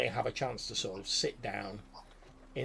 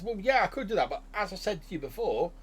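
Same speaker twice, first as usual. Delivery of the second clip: high goblin reply; 9 semitones higher than usual. Acted. Goblin refusing the party, high pitched. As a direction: goblin explains the rule. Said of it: "He says, he says".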